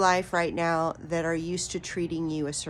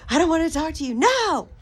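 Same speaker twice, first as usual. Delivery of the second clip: put-on childish refusal; 10 semitones higher, 8 dB louder, faster than usual. Mimicking someone refusing to talk.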